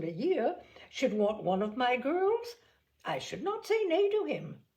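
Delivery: lightly voiced fussy mother; Mrs Bennet. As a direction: play the offended mother, pitch up. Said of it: "Mrs Bennet reminisces".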